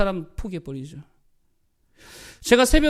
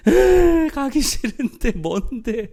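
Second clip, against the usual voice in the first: high whiny sob, then slow grumble; mock crying child; 7 semitones higher, 3 dB louder, much slower than usual. Father imitates his child sent on an errand, mock crying. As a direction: imitate a kid wailing in protest. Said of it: "막 울면서 가요".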